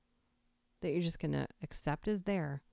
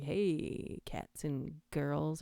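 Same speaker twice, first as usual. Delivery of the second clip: night DJ; much slower than usual. Retold or imitated. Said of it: "a really super cool night D J".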